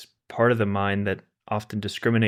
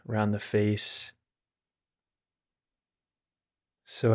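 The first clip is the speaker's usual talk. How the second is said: calm, unhurried meditation guide with long pauses; guided meditation. Acted. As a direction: gently guide listeners to settle and relax, leaving space between phrases.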